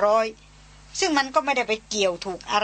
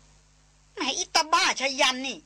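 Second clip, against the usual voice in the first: a light half-joking telling-off; soft scolding; 2 semitones higher than usual. Acted. Darin scolds Chayan for startling her, mildly. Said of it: "ตวาดแวดเบาๆ".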